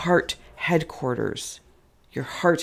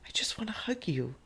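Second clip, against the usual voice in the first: whisper; 5 semitones higher, 8 dB quieter than usual. Real, not acted. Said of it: "I'm gonna cry again".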